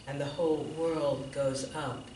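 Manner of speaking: measured recital, each line falling softly away; poetry reading. Real, not acted. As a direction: recite it as a quiet invocation, pausing between lines. Reads autumn poem aloud.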